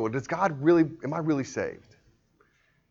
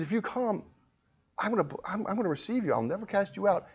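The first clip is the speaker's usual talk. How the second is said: softer, raised-pitch reassurance; gentle promise; 7 semitones higher, 7 dB quieter, faster than usual. Acted. Preacher voicing God's promise to receive, gently softened. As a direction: offer it softly as a promise. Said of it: "God says".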